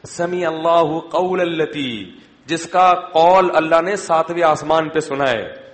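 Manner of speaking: slow recitation. Acted. Reciting verse slowly.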